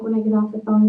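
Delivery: normal talking voice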